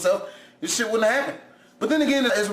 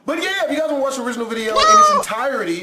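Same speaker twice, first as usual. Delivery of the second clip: louder, fast, emphatic retake; loud fast redo; 4 semitones higher, 6 dB louder, much faster than usual. Real, not acted. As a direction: punch it out clearly this time. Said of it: "I'm on a roll today".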